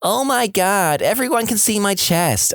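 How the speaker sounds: high, slow mock whimper; mocking fake cry. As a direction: mum mimicking her crying daughter, hammed up. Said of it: "fake crying in my voice and saying".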